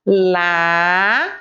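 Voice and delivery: slow, spelled-out reading of the word; slow syllable reading. Shown as a demonstration. Teacher reading a word slowly with children. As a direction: sound it out for the class, slowly. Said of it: "Vamos ler agora".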